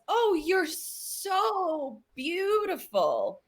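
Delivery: slow, drawn-out creepy admirer voice; lovestruck creep. Retold or imitated. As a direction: croon it slowly like a creepy suitor. Tim Curry's character wooing her.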